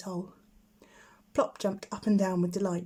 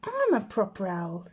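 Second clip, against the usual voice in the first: cross. Acted. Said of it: "getting very cross".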